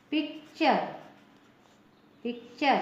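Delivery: "पिक्चर" ending in char; "पिक्चर" modelled with a clear ch; TURE as "char". Shown as a demonstration. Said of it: "इसका उच्चारण होगा".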